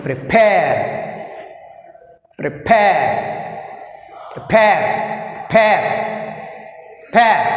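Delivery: prePARE, weight on PARE; teacher drilling prePARE, stress on PARE. Shown as a demonstration. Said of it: "Second syllable is pair".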